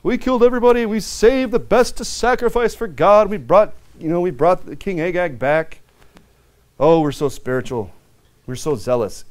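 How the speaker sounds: a touch of smug self-praise; mock pious boasting; fake-zealous Saul. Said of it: "Saul had a lot of fake zeal".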